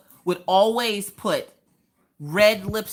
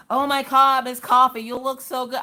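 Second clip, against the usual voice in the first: higher and louder, imitating fans gushing; mock gushing praise; 5 semitones higher, 3 dB louder than usual. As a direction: play the over-the-top flatterer. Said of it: "Everybody else is like".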